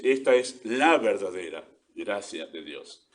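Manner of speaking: slow, weighty "la verdadera", the rest falling away; stress on "la verdadera". Shown as a demonstration. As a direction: dwell on "la verdadera" as the key quality. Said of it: "Eso es lo que está acentuando el apóstol".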